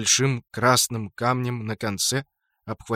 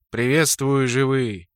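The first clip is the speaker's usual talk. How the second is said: sepulchral voice. Acted. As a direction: speak from beyond the grave. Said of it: "раздался замогильный голос".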